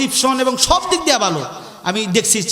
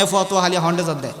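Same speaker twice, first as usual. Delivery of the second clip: Chittagonian dialect; 5 semitones lower, 3 dB quieter, faster than usual. Retold or imitated. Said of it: "আপনারা মনে হয় বলেন".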